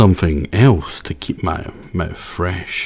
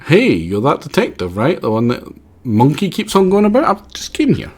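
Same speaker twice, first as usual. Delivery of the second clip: character voice; 5 semitones higher than usual. Acted. Voicing a game character.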